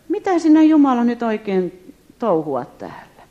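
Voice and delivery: high, loud bewildered outcry; exasperated cry to God. Retold or imitated. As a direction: throw the question up at heaven.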